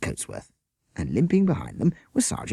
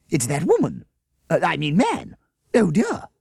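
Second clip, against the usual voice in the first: higher, louder flustered concern; 10 semitones higher, 6 dB louder than usual. Acted. Miss Beaver recognising Bert, concerned. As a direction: fuss over it, worried. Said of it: "she added in concern".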